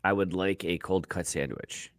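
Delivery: lightly voiced, low and slow quarterback impression; half-hearted, slow, low impression; Tommy DeVito. Put on the spot for an impression, a low, slow half-hearted try. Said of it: "Give me Tommy DeVito".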